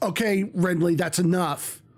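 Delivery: play-acted firm, stern, fatherly scolding tone. A father recounts finding renly on the floor, retelling his stern dad voice. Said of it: "in my stern dad voice".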